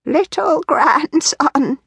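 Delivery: a hint of an ancient wheezy elder; wheezing old man. A narrator's reading. Old Wrinkly answers his grandson with a slow wheeze. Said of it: "wheezed old Wrinkly".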